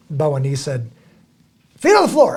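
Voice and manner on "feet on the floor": high, loud wake-up holler; imitated loud, high-pitched call; mock shout. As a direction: belt it out like a morning rallying cry. Retold friend's morning call.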